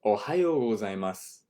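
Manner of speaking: gozaimasu with the u dropped, ending on s; natural way. Shown as a demonstration. Teacher models the natural ending. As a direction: finish gozaimasu on s. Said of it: "we just drop the u sound".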